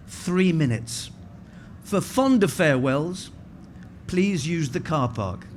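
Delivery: light mock BBC newsreader accent, measured and deliberate; best BBC voice. Moderator reads the hug-limit news story to the audience, mock BBC accent. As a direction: read it like a BBC news bulletin, tongue in cheek. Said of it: "in my best B B C voice".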